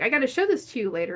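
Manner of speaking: put-on quick excited child's promise; eager niece. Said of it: "She's like".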